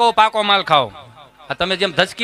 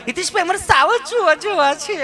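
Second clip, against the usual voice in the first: high, prissy city lady voice, much higher; posh city tourist; 10 semitones higher, 3 dB louder than usual. Retold or imitated. Comedian mimics city tourist asking to see lions, high and prissy. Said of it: "અમુક અમુક ચીપી ચીપીને બોલે".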